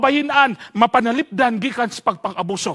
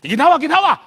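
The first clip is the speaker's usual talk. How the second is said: louder, higher order to breathe out; urgent command; 8 semitones higher, 7 dB louder than usual. Retold or imitated. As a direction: bark it like a pushy friend. Friend checking breath smell. (kusog nga mando)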